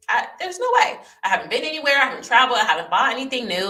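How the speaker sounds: arguing with herself in a rising panic; frantic disbelief. Retold or imitated. Alone at night, insisting to herself it's no bed bug, frantic. Denial on finding bed bugs.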